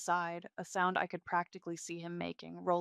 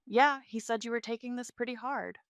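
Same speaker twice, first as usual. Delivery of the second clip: higher, louder, condescending rival; arrogant, dismissive; 5 semitones higher, 7 dB louder than usual. A narrator's reading. Mistress to the abandoned wife, arrogant and dismissive. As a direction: toss it off with mock pity. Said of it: "a perfect display of arrogance and dismissiveness".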